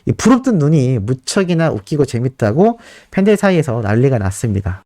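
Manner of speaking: usual speaking voice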